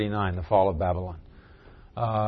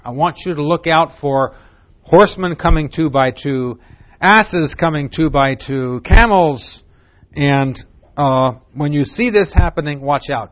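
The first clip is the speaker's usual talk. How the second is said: louder, raised orders to a sentry; instructing a lookout, louder; commanding the watchman; 3 semitones higher, 6 dB louder than usual. Acted. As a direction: give the watchman his orders.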